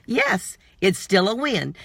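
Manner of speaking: usual speaking voice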